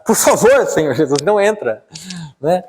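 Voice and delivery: lightly acted plea, pitch jumping up; mock begging with lively pitch swings; pleading disciples. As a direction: play an eager little plea. Acting out disciples welcoming Jesus aboard.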